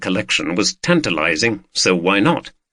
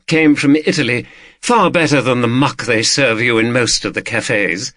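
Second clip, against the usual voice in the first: lightly voiced hostess, higher pitch; hospitable hostess; 4 semitones higher than usual. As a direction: offer it as an assured lady of the house. Voices woman offering coffee.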